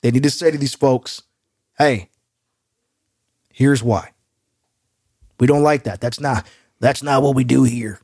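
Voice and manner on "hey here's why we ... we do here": put-on lazy Southern good-ol'-boy voice, understated; Jerry Jones impression. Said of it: "I don't know why I'm going Jerry Jones".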